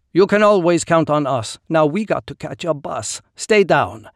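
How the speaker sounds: high, sly dealer voice; smug trader voice. Acted. Nylarin character voice.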